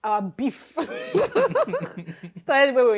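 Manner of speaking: words dissolving into high laughter; laughing. Real, not acted. Starting the story of the class feud, laughing.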